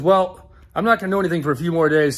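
imitating irritated owner. Owner brushing off a customer, fast and curt. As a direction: hurry it out annoyed.

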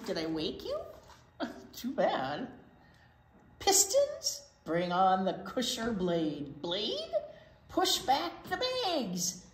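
a lightly voiced swaggering truck; boastful garbage truck. Reading to kids, a cocky garbage truck brags. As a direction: brag like a proud garbage truck.

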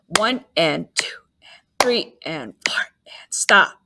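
whispered rest counts; counting under breath. Shown as a demonstration. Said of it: "using our whisper count".

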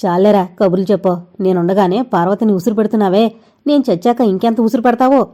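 a mother yelling at her son; angry shouting. Acted. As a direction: snap back, voice rising. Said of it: "అంది ఆవిడ కోపంగా కేకలు వేస్తూ". (కోపంగా కేకలు వేస్తూ)

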